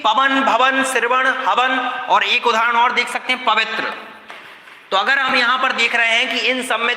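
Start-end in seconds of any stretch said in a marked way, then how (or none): 0.0-1.8 slow example words. Shown as a demonstration. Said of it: "इनमें देखिए".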